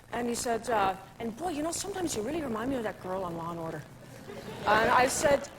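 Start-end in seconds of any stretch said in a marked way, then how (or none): 1.2-3.8 put-on Irish accent. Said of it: "your little Irish".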